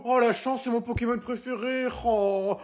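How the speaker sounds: high, thrilled squeal of delight; gushing excitement. Acted. Player gushing over the other's cards, high and thrilled. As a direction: gush over a favourite Pokémon.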